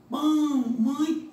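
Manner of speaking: "pão", "mãe" loud and high, nasal vowels held; sons nasais destacados. Shown as a demonstration. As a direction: call out "pão", "mãe" as separate nasal examples. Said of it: "entre outros exemplos". ("pão", "mãe" com as vogais nasais fortes e esticadas)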